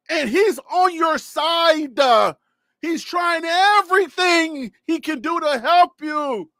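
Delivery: pleading with the team, voice rising; emotional rant. Real, not acted. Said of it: "I get a little emotional".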